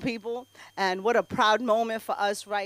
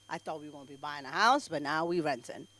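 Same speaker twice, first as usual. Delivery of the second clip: lower, softer, a bit fast; deflated aside; 9 semitones lower, 8 dB quieter than usual. Acted. To the audience about renting instead of buying, deflated mutter. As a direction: let it sink in disappointment.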